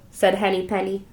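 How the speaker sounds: usual speaking voice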